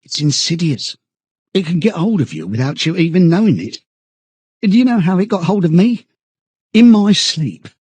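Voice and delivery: high, agitated character voice; earnest confiding. A narrator's reading. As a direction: tell it as an awful, amazing revelation. Parsons confides his guilt, high voice.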